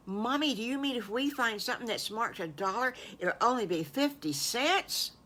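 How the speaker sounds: put-on high, quick, eager child voice; little pig thrilled about a bargain; excited child. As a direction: ask it breathless with excitement.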